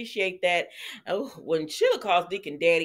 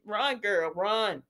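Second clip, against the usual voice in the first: urgent warning; slower than usual. Pretend. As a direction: yell at the screen to flee. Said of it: "I said".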